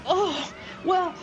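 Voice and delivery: high, sweetly obliging character voice; acted grateful generosity; gracious mermaid.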